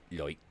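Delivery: "Yoik" for like, with an oy vowel; imitated pronunciation. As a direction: mimic her regional "Yoik". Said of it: "the way she pronounces the word like".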